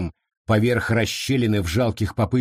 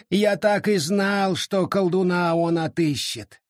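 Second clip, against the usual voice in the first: mournful; 8 semitones higher than usual. Acted. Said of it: "скорбно покачав головой".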